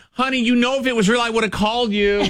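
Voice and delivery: imitating coworker. Dallas voiced in background.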